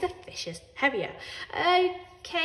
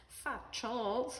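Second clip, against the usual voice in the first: muttered; 3 semitones higher, 9 dB quieter than usual. A narrator's reading. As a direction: mutter it under your breath. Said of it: "her father muttered".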